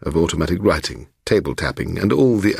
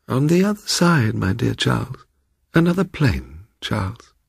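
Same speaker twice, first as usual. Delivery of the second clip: higher, lightly voiced gushing spinster; a hint of a fluttery old lady calling Charles; 5 semitones higher than usual. Old Miss Allgood recalled.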